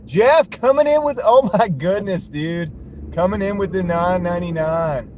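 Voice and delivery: very high, loud hype yell that settles down; excited shout. Real, not acted. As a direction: shout out the donor, overjoyed. Another top donation arrives.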